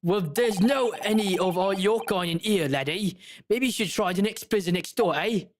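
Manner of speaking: lightly hammed-up Cockney governor; Cockney accent. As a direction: send them packing in Cockney. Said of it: "gonna give him a Cockney accent".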